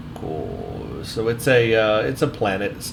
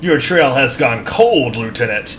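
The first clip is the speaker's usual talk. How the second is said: stern officer; 5 dB louder than usual. Acted. Voices officer dialogue.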